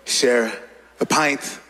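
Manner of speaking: low British-style accent, drawn-out and halting; changed English accent. Shown as a demonstration. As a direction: suggestive pub invitation in accented English. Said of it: "si je change juste un peu mon accent".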